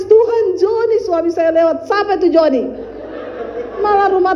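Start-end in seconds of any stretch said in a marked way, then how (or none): 0.0-1.9 high-pitched pretend weeping plea; mock tearful prayer. Preacher mimicking a weeping prayer for Joni, mock crying. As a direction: start high, as if crying to God. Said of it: "kalau saya menangis".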